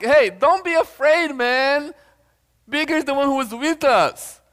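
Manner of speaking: high-pitched, emphatic prophet voice; reassuring prophet. Acted. Preacher voicing Elijah to his servant, emphatic reassurance. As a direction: urge a scared friend to take heart.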